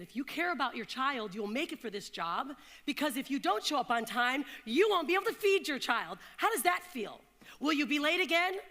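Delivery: a boss berating a new mother in a meeting. Retold or imitated. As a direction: build from cold to harsh scolding.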